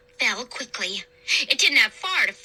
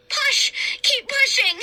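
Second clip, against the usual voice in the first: straining shout; 13 semitones higher than usual. A narrator's reading. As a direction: shout through the effort.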